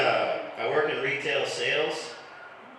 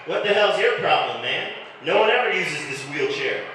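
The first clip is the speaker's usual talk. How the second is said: mock-indignant, raised voice; hammed-up self-righteous protest; indignant retort; 3 semitones higher, 3 dB louder than usual. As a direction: snap back defensively, louder at first. Acts out arguing with people at work.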